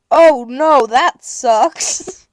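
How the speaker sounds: loud, mock-sympathetic clerk; loud, hammed-up sympathy; mock kindly clerk. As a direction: play the falsely sympathetic clerk. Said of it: "so kindly".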